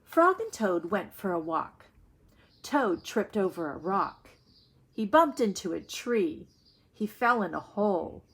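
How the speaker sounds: put-on reading a children's story aloud to the class; read-aloud storytelling. A narrator's reading. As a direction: tell the story to young listeners. Teacher reads story aloud.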